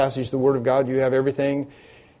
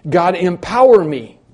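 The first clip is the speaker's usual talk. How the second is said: slightly raised, emphatic plea to God; pleading prayer; 3 semitones higher, 3 dB louder than usual. Acted. Preacher modelling a kneeling believer's prayer, pleading for strength. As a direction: call out for help in earnest prayer. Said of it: "get on your knees and say".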